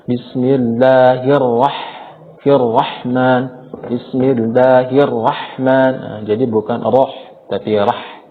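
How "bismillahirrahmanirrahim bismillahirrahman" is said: slow chanted "Bismillahirrahman" with a thin, open "rah"; thin ra mistake. Shown as a demonstration. Teacher showing the wrong reading, thin ra. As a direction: recite "Bismillahirrahman" slowly, ra left unthickened as "rah". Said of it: "tetapi bunyi ra".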